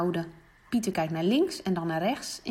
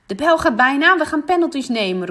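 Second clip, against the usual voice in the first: loud, raised referee call; 6 semitones higher, 9 dB louder than usual. Acted. Referee Leon announcing penalties, loud call. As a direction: announce it over the playground. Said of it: "roept hij".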